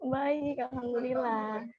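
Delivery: soft, barely audible answer; speaking softly, almost under the breath; very quiet voice. Real, not acted. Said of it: "Kok suaranya pelan banget sih". (suara pelan sekali)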